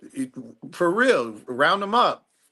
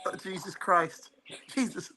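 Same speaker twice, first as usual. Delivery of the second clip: shocked groan; 5 semitones higher, 5 dB quieter than usual. Real, not acted. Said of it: "I'm really trying not to laugh here".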